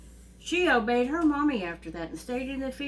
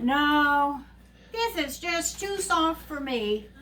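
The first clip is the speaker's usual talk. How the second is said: lightly voiced fussy Goldilocks, higher pitch; 4 semitones higher, 4 dB louder, slower than usual. Goldilocks trying the medium bed, mildly fussy complaint. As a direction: lightly play a girl rejecting a bed. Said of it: "it squirms around a little bit".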